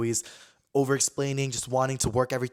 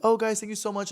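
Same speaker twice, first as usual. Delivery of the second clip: put-on gratitude; 9 semitones higher than usual. Retold polite excuse to friends.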